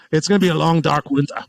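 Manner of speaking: mock-solemn politician with a slight Austrian tinge; lightly hammed-up grave warning; Biden. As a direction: imitate a politician, drifting toward an action-hero accent. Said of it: "you sound like a little Arnold there".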